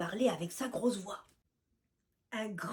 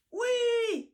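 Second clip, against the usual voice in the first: high loud yell; shouting in chorus; 12 semitones higher, 6 dB louder than usual. Acted. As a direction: roar it out together. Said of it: "hurlent de concert compères et commères".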